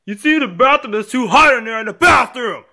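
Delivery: high-pitched whining yell; screaming tantrum. Acted. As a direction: rant in a high voice, breaking into screams. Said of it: "Stop screaming!".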